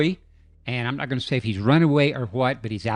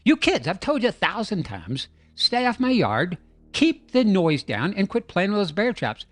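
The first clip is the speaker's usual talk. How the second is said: higher-pitched grumpy neighbour voice; a lightly voiced grumpy Bigfoot telling kids off; mock-stern Bigfoot scolding the noisy kid; 5 semitones higher than usual. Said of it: "He's like".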